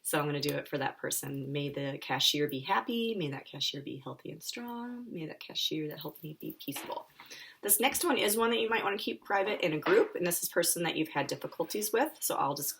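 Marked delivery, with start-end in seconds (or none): 1.5-7.1 soft, gentle recitation; calm meditation voice; guided kindness phrases. Acted. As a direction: wish it quietly to someone you love.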